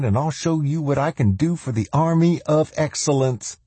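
high, eager self-promoter; cocky intruder. Acted. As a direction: pitch yourself brashly in a high, lilting voice. Mangrum pitches himself for sergeant.

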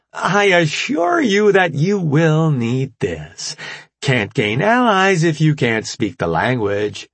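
high, slow, bright chirp; perky young scientist. Acted. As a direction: sweetly introduce yourself.

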